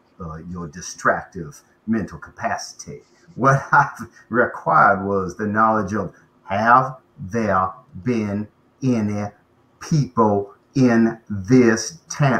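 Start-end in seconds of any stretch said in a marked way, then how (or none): 3.4-12.4 each word spaced out very slowly. Character repeats a question that went unnoticed, speaking very slowly. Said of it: "I'm speaking very slowly".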